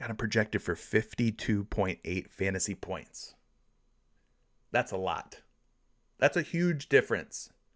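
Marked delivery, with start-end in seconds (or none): 0.0-3.3 hushed mock whisper, secretive. Sharing a fantasy points projection as a joke secret: mock whisper. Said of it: "I'm gonna whisper this so the Prize Picks doesn't hear".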